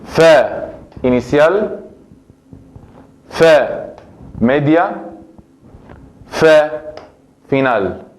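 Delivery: name the three positions slowly; enumeración didáctica; teaching list. Shown as a demonstration. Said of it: "tengo las tres posiciones".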